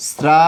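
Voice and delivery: "স্রা" with a dental s, sraa; correct pronunciation. Shown as a demonstration. Teacher spells out the answer for students, "স্রা" pronounced with a dental s. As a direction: say "স্রা" as sraa, not shraa. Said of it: "উচ্চারণটা হবে এইটা".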